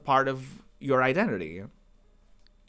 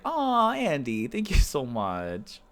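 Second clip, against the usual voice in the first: touched and grateful; slower than usual. Real, not acted. Streamer thanking a viewer for a kind compliment, touched. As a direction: gush slowly with real gratitude.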